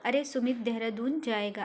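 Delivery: understated surprised exclamation; a touch of astonishment, led by "अरे"; mild surprise. Shown as a demonstration. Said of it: "अरे मतलब आश्चर्य से कह रहे हैं".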